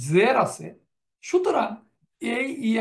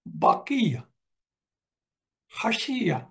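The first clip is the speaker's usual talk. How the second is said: slow vocabulary drill; slower than usual. Shown as a demonstration. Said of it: "এখন এই গ্রুপে কোনগুলো?".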